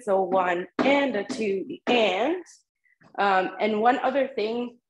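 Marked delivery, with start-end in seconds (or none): 1.7-2.4 "the and." leaned on, slightly lifted; accent on the and. Shown as a demonstration. Teacher repeating the accented "and" for students. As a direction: punch "and" as the heavy accent. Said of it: "that's a heavy accent".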